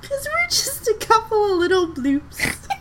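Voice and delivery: playful sing-song closing line; cutesy outro line. Pretend. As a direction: deliver it as a cute sign-off as it fades. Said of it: "you just go".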